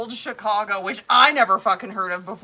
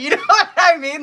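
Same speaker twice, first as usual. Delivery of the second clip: laughing; 9 semitones higher, 10 dB louder than usual. Real, not acted. Laughing mid rant.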